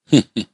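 short, low, sinister heh-heh; sinister chuckle. Acted. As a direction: chuckle darkly under the words to come. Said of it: "阴森森的一笑". (阴森森地嘿嘿一笑)

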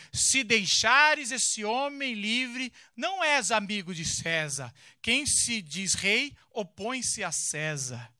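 loud, slow shouted warning; the crowd threatens Pilatos, shouting slowly. Acted. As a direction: cry it out like an angry crowd.

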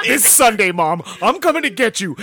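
loud hyped wrestler trash talk; wrestling promo. Retold or imitated. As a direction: hype it up like a wrestler. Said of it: "she's doing a wrestling promo".

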